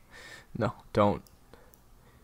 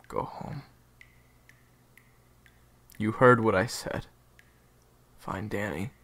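louder, insistent command; firm loud order; 10 dB louder than usual. Acted. Ghost orders Baby bird to leave, loud and firm. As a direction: push him away with force.

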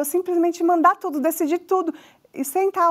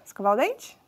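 thinking it over; 3 semitones lower, 3 dB quieter than usual. Acted. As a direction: lower questioning murmur to oneself, rising end. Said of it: "o cérebro vai pensar". (pensando, em tom de pergunta)

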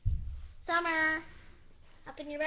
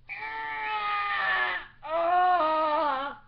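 drawn-out wail. Acted. Wailing over lost laptop.

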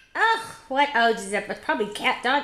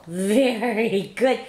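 drawn-out praise; much slower than usual. Real, not acted. Adult praising baby girl for saying apple, drawn-out praise.

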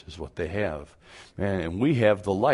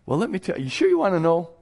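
high, louder teasing; teasing tease; 10 semitones higher, 5 dB louder, faster than usual. Retold or imitated. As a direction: dangle it in front of them. Teasing the questioner.

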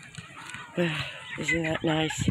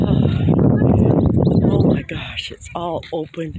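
out of breath; 6 dB louder than usual. Real, not acted. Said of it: "No wonder I'm out of breath".

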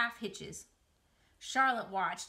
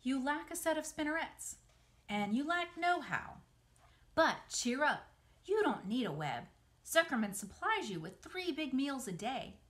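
lightly voiced, higher-pitched story character; Charlotte advising, encouraging; 5 semitones higher than usual. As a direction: explain it, then lift into encouragement. Voices Charlotte advising, then cheering Wilbur.

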